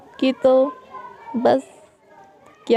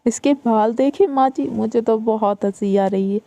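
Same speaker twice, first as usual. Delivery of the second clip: mocking sister-in-law; 3 semitones higher than usual. Elder daughter-in-law mocking new bride.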